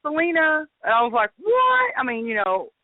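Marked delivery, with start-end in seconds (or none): 0.0-0.7 higher-pitched imitated name call; mother's inflection. Showing the inflection her mother used, called out high. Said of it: "it's three syllables". 1.4-1.9 very high-pitched incredulous "what"; retold shock. Reliving her reaction to the spirit, high astonishment.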